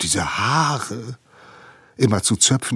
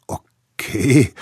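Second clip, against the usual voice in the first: relieved; 5 semitones higher, 5 dB louder than usual. A narrator's reading. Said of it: "sage ich erleichtert".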